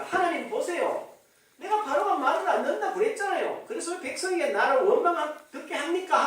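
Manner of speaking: retold complaint. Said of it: "처음에는 같은 수준이었어요".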